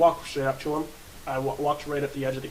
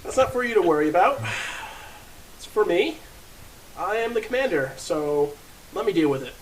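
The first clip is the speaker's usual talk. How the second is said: bossy commander; 4 semitones higher than usual. Acted. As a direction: lord it over the dim goblin, full of bluster. Player bluffs as pompous commander.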